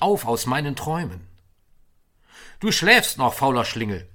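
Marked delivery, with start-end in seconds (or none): 2.6-4.1 teasing wake-up call. Acted. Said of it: "rief er". (laut und hoch, neckend gerufen)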